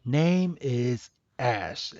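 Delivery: very slow, soft halting echo; Coco. Retold or imitated. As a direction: repeat it like someone learning to speak. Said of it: "freaking Coco's like".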